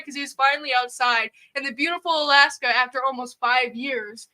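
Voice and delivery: ordinary talk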